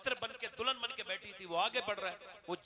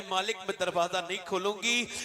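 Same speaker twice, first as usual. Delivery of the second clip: voiced frightened woman; 2 semitones higher, 9 dB louder than usual. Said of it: "कहने लगी".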